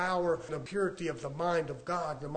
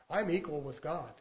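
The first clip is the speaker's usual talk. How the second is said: softer, understated claim; quiet statement; 7 dB quieter than usual. Acted. Preacher stating scripture to a wary listener, quietly.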